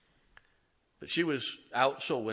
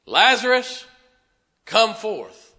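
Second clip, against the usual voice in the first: much higher and louder, a ringing command; commanding call; 10 semitones higher, 14 dB louder, slower than usual. Acted. Jesus calls dead Lazarus out of the grave, a booming command. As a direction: call him out of the tomb.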